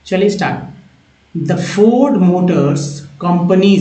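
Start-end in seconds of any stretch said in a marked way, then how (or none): 1.4-3.8 very slow, drawn-out word-by-word reading; slow model reading. Shown as a demonstration. Teacher modelling English text for Hindi-speaking learners, slow and deliberate. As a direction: stretch each word out for learners.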